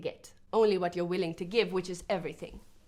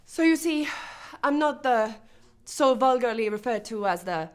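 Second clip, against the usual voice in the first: loud, raised, proud rebuttal; defiant; 3 semitones higher, 4 dB louder than usual. Acted. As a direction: announce it with disdain, pausing between phrases. Defiantly rejecting her public image.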